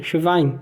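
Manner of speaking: Schwein with V sound; German Schwein. Shown as a demonstration. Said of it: "o W aí com o som de V".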